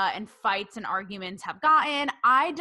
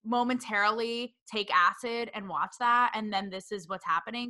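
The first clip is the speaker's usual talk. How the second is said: baffled disbelief. Retold or imitated. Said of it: "I was like".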